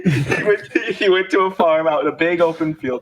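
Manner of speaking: laughing. Real, not acted. Laughing through dog joke.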